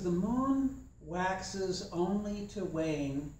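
slow, measured reading of the proverb; a calm, unhurried proverb reading; proverb recital. Shown as a demonstration. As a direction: let each word of the saying land slowly. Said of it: "Proverb is".

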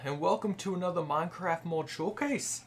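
a hammed-up mock Australian accent; playful put-on Australian accent for the intro. Gamer opening his Minecraft mod showcase, in a mock Australian accent. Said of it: "that's my best Australian accent".

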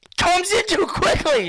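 breathy high-pitched complaint; high whisper. Real, not acted.

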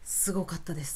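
hushed, still moved by the memory; awed whisper. Real, not acted. A fan whispering in awe about the star's performance.

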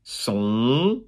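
"Son" ending on a held nasal vowel. Shown as a demonstration. Teacher showing French vowel endings, nasal vowel on "Son". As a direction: say "Son" with no final n, vowel through the nose. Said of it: "it's a nasal vowel".

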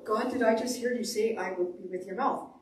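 doubtful question, rising at the end; puzzled query to God. Acted. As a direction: check whether you heard right. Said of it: "that's where you go".

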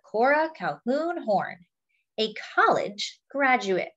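put-on lively picture-book read to children; story narration. A narrator's reading. Reading a picture book about a singer to friends, lively storytelling. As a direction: tell it like a storyteller to a class.

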